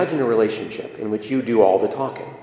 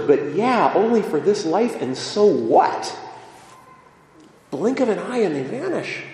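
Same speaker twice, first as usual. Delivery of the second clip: realizing psalm writer; 2 semitones higher than usual. Acted. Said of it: "the psalm writer says".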